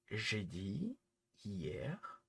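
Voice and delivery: a quick whispered hier; whispered aside. Real, not acted. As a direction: whisper the word hier under his breath. Aside mid-rant.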